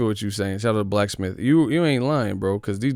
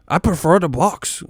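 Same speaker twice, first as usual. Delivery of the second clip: high, louder mock British line; mock British fan; 7 semitones higher, 5 dB louder than usual. Mocking British fans' new preference for boxing, high mock accent. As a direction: announce it like a smug Brit. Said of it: "get the box".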